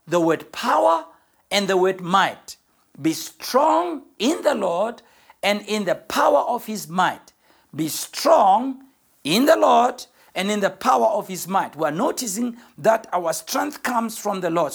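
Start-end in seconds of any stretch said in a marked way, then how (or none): 3.0-11.7 preaching the verse. Acted.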